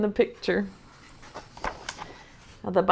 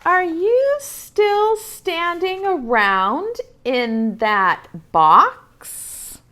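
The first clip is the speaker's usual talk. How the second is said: voice 7; 7 semitones higher, much slower than usual. A narrator's reading. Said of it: "narrated question from the book".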